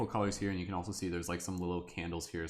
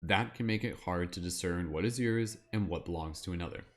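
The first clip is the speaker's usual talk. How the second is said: wizard voice. Pretend. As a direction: read it out like a solemn wizard, drawing out phrase endings. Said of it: "my like wizard voice".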